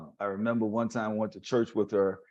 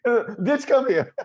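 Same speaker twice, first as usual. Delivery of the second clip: a higher, affectionate Aunt Mina call; lightly voiced aunt calling someone over; imitating Aunt Mina; 11 semitones higher, 5 dB louder, slower than usual. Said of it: "she'll call you a bitch".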